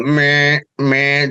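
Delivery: calling in the buck with a mimicked bleat; imitated deer bleats. Hunter mimics doe bleats to lure buck, mock bleating. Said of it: "the little estrus bleats".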